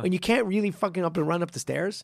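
mock outraged rant. Telling the co-host what he'd say to the student, a hammed-up yell. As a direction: blow up at him in pretend outrage.

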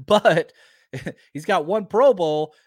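laughing through the words "he's got one Pro Bowl". Real, not acted. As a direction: laugh as you repeat it, amused at the snub. Repeats the line, laughing.

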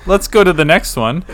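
laughing, high and loud. Real, not acted. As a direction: giggle through the words. Laughs at painful paradox talk.

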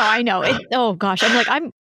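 soft, tearful and flustered; trying to keep from crying; real teary. Real, not acted. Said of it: "I knew I was gonna cry".

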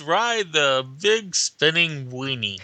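mock carnival barker. Mock fairground ride pitch.

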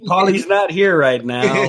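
slow mock voicemail voice; Paulie's answering message. Friend mocking Paul's dodge as a slow voicemail greeting. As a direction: play the answering machine, slowly. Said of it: "bleep, bleep, bleep".

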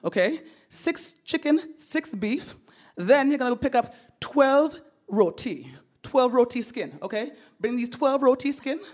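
bossy mom listing orders in a lightly put-on voice; voicing mom. Mom phoning her son with errands, lightly voiced mom.

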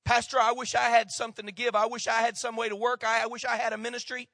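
congregant's plea. Acted. Church member tells the pastor what they wish they had, mild plea.

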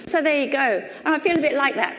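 talking through real laughter; amused, laughing words. Real, not acted. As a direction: chuckle while saying it. Laughing after the joke.

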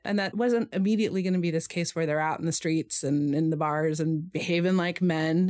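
dry mock seriousness; sarcastic. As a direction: say it with heavy irony. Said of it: "I'm saying that very sarcastically".

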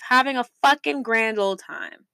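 words pushed out through a burp. Real, not acted. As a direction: let a burp roll through the line. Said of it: "Excuse me for the burp".

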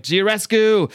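hammed-up yell at the vampire; screaming the name. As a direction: call the name out across the room. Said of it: "Hellboy's just screaming".

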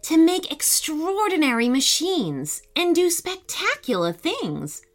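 epic fantasy narrator. Acted. Storytelling narration begins.

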